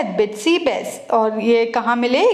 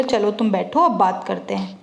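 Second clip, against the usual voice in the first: lightly voiced gentle invitation; gently coaxing; 3 semitones lower than usual. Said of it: "Higgins ने फिर बहुत प्यार से उसको बोला".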